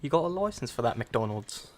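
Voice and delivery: mock British busybody; officious British questioning; British accent. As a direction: put on British for the joke. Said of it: "British people be like".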